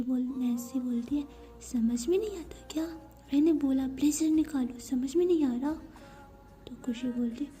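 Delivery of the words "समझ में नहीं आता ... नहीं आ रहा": bossy scolding. Acted. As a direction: scold her like a strict parent. Nancy orders her to take blazer off.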